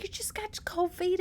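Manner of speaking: lightly voiced mama, high and airy; dismissive mama. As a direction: brush her off in a high, breathy coo. Mama voiced brushing off daughter.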